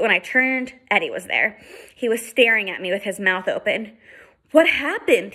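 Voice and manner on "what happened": demanding. Acted. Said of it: "he demanded".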